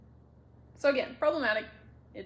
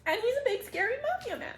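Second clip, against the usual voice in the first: gushing excitement; 12 semitones higher, 5 dB louder than usual. Real, not acted. Gushing about the mafia hero.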